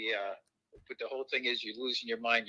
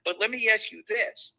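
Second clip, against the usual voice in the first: leading question; 11 semitones higher, 5 dB louder than usual. Real, not acted. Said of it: "Here we go".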